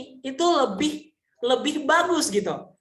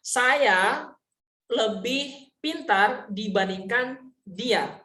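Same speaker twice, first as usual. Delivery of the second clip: slow example reading; much slower than usual. Shown as a demonstration.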